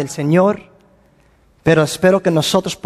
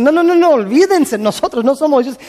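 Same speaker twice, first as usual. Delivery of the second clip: urgent pleading; 5 semitones higher than usual. Retold or imitated. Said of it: "Y están así clamando".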